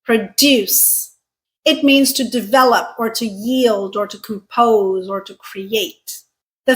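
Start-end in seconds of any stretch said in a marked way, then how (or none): 0.0-1.1 "Produce" as pruh-DUCE, falling; stress on second syllable. Shown as a demonstration. Teacher repeats the verb, "Produce" stressed on DUCE. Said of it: "pronounced this way".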